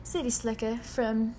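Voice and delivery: slow city-slicker southern; southern accent. Acted. Host playing a city slicker from Tennessee, southern accent. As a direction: introduce yourself in an unhurried southern accent. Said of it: "Whenever I try to do southern".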